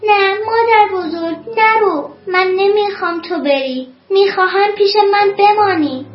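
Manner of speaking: restrained storybook cry of protest; pleading cry. Acted. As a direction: cry out as a little girl begging someone to stay. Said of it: "دخترک فریاد زد".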